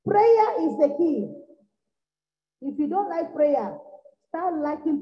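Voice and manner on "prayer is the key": slow, weighty, louder; preacher's slow emphatic declaration; slow proclamation. Real, not acted. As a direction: lay down each word like a law.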